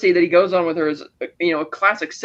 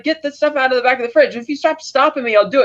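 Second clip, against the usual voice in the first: higher-pitched mock bickering; retold yelled argument; 7 semitones higher than usual. Retelling two men fighting over adrenaline shot instructions, mock yelling. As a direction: act out both sides of a squabble, pitch raised. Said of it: "yelling at each other about it".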